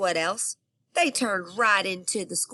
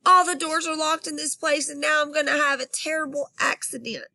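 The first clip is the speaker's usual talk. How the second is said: put-on high, loud frantic kid; panicked plea; 8 semitones higher, 3 dB louder than usual. Girl begging the operator for help, high and frantic. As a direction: rush it out in a panic.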